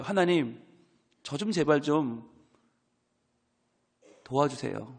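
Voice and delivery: soft, slow, pleading prayer fading to near silence; earnest plea. Acted. Pastor voicing Job's prayer to God, soft desperate plea. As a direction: beg quietly for help. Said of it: "욥의 간절한 심경이 담긴 고백".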